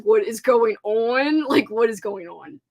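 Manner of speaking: bewildered. Retold or imitated. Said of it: "and I'm like".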